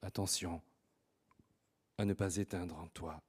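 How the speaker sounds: low, soft closing echo of the motto; hushed refrain. Acted. Host repeating the poet's motto to the audience, hushed and low. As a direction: let the repeated warning sink low and quiet.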